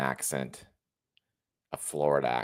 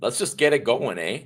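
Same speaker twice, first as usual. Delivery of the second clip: put-on playful Canadian accent, pitched higher with a tacked-on eh; mock Canadian accent; 7 semitones higher than usual. Streamer starting his stream on the Canadian election, mock Canadian accent. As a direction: lightly put on a Canadian accent to kick things off. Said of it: "I have to talk like a Canadian".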